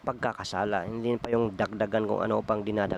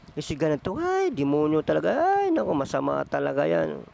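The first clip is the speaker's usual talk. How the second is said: a nosy gossip's voice, jumping much higher on "ay, naku"; gossiping neighbour; 5 semitones higher than usual. Acted. Preacher mimics a gossip badmouthing someone, higher and shocked. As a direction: dish the dirt like a shocked gossip.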